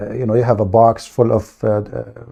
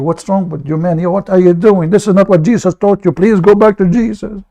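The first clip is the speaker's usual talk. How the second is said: rising higher, faster mock scolding; hammed-up offended protest; mock indignation; 6 semitones higher than usual. Streamer mimics Muslims protesting his harsh talk, mock offended. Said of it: "they say to you".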